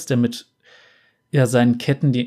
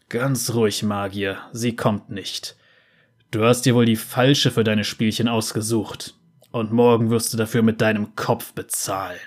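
menacing guard; 3 semitones lower than usual. Acted. Guard threatening prisoner.

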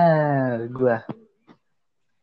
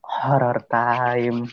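spooky announcer; much slower than usual. Acted. Announces the horror segment.

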